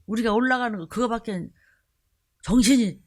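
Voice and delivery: mock the elders' muttered verdict; a hint of fond exasperated gossip; imitating elders. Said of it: "말 안 해도".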